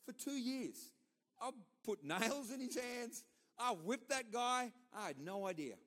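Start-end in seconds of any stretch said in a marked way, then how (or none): 1.4-4.7 higher and slow, each word weighed; slow emphatic confession. Real, not acted. Preacher admitting the hurt he caused, slow and emphatic. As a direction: press each word home slowly.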